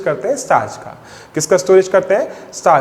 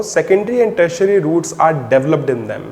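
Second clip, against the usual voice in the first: slow, deliberate note-taking pace; slow dictation; 2 semitones lower, much slower than usual. Shown as a demonstration. Teacher dictating a line for students to copy, slowly. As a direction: read it out so they can write it down.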